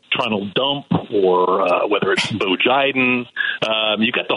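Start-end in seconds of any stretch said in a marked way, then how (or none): 0.1-1.6 "Tronald Dump", first sounds swapped, slow; spoonerism. Shown as a demonstration. 1.6-3.3 "Bo Jiden", first sounds swapped, slow; spoonerism. Shown as a demonstration.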